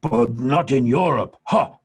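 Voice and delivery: playful imitated jab, then a bark of "ha"; cheeky teasing. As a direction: tease the English guest, punchy. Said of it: "and he goes".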